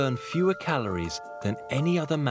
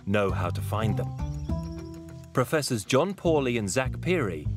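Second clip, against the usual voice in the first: calm documentary narration; nature documentary. A narrator's reading. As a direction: tell it like a wildlife film. Documentary narrator over music.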